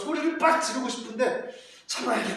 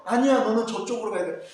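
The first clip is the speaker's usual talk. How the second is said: insisting God; 2 semitones higher, 6 dB louder than usual. Acted.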